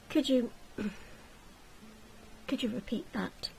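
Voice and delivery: hesitant ask. Acted. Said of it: "cupped his hand to his ear".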